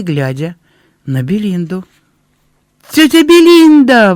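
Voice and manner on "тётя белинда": much higher, louder astonished shout; boy amazed to see his aunt, shouting; boy's excited cry. A narrator's reading. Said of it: "воскликнул он".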